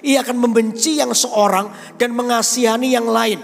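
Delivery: scripture reading. Acted. Reads scripture aloud.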